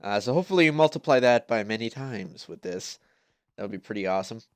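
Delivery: stuffy nasal voice from a cold. Real, not acted. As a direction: talk through a blocked nose. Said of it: "if my voice sounds a little bit, uh, nasally".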